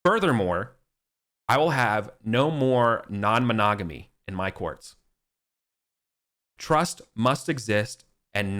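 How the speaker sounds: decree it to the whole court; royal decree. Acted. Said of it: "He's like".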